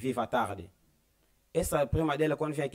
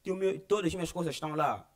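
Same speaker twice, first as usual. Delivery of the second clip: mock tearful lament; 4 semitones higher than usual. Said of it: "E começou a chorar".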